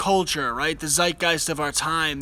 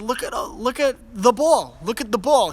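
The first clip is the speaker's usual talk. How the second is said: higher, bright coaxing parent voice; talking to a toddler; 6 semitones higher than usual. Retold or imitated. Father modelling the word ball for his son, higher coaxing voice. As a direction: point it out for a small child. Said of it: "I said".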